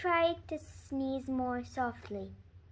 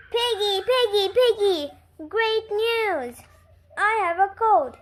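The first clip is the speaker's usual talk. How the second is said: higher, louder, with a laugh; overjoyed news; 6 semitones higher, 8 dB louder than usual. Acted. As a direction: share the great news laughing. Gerald runs to tell Piggie.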